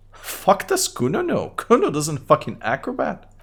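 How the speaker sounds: put-on high-pitched mouthy kid voice; Kuno voice. Kid Kuno mocks the cop, high bratty kid voice. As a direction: voice a rude little brat up high, talking about himself in third person. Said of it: "What is wrong with your high voice?".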